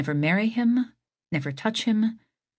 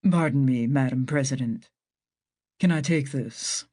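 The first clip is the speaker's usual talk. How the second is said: interrupting doctor; 5 semitones lower than usual. Acted. Doctor voiced lower, interrupting.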